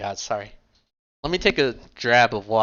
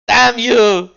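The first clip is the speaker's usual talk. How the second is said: hammed-up howl of despair, much higher and louder, very slow; desperate dramatic cry; 11 semitones higher, 10 dB louder than usual. Rook mourning the eaten tacos, hammed-up anguished howl. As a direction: wail it like a ruined hero at the heavens. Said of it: "dramatically raises his arms in desperation".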